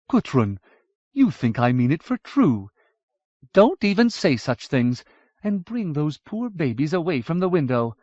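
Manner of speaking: a touch of amused, mock scolding; amused protest. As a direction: laugh away her friend's horror. Vorsheva laughs off horror.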